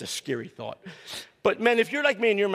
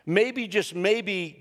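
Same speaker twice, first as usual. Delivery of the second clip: slow preaching emphasis; 3 semitones higher, much slower than usual. Acted. Preacher repeats the refrain slowly.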